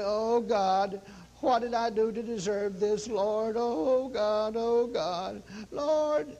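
hammed-up self-pitying prayer; drawn-out mock moaning to God; mock guilt-trip lament. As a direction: plead as if wallowing in guilt. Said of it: "take on a guilt trip and say".

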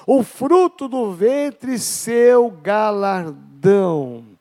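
slow, drawn-out solemn reading; scripture reading. Acted. Pastor reads the psalm to the church, very slow and solemn. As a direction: savour every word of the verse.

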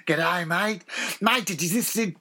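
playful Australian twang; hammed-up Australian accent. Shown as a demonstration. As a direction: chat like an Aussie mate. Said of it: "Do an Australian accent".

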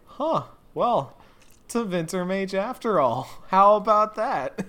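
high, loud smug dawning realization; mock the mage's smug surprise; Anders voice. Player imitating Anders admitting he was wrong, high smug mock voice. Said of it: "has this moment of like".

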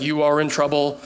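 low, even robocall voice; automated message. Retold or imitated. Preacher imitates a scam call, automated message voice. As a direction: intone it like a recorded warning. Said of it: "as soon as I get the automated message".

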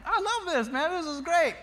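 high-pitched, thrilled exclamation; excited delight. Retold or imitated. Dad watching the team chant, excited delight.

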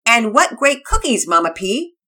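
very high, loud surfer dude shout; a stoked skater boy yelling with delight; Todd the surfer kid. Acted. Todd voiced.

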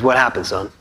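a hint of a kneeling father's softness; gentle. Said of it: "looks him in the eye and says".

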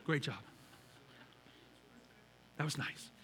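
soft, low, unenthused great job; mock the half-hearted cheer; flat lukewarm praise. Pastor mocking a dull parent at the game, soft and flat. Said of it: "sit there and go".

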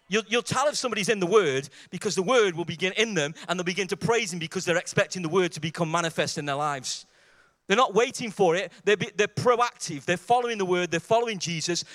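loud, insistent preacher's delivery; forceful preaching. Real, not acted. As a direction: drive each phrase home to the congregation.

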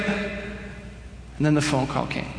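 slow hushed dread; slow, breathless whisper of doom; ominous whisper. Acted. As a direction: whisper it like a horror twist. Ominous turn in the story.

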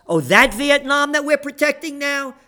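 sarcastic. Real, not acted. Mocking sarcastic question.

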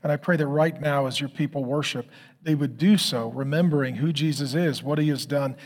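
calm, measured pastoral prayer; closing prayer. Acted. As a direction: pray over the congregation steadily.

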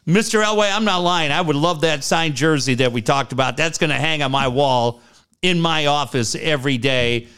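lightly voiced gushing new coach; a hint of an overeager press conference; mock rah-rah speech. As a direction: play the grateful eager hire, mildly hammed. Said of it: "Ryan Rah Rah".

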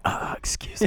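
high, soft prim "excuse me"; mock polite interruption. Guest imitating the host's prim throat-clearing, soft. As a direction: imitate her clearing the way primly. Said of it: "she was like".

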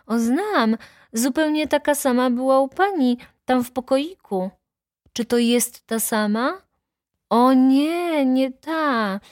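put-on high childlike answer; little girl's voice. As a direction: testify as an eager small child. Little Helunia testifies to judge. (wysoki głosik dziewczynki)

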